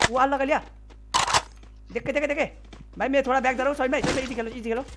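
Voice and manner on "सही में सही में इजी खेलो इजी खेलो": softer, easing the teammate down; quiet warning mid-fight; hushed caution. Real, not acted.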